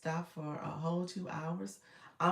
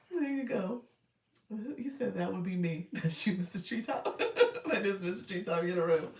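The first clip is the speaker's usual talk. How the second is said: chipmunk voice effect; 3 semitones higher than usual. Real, not acted. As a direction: talk through the chipmunk filter. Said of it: "Use the voice effect, friend".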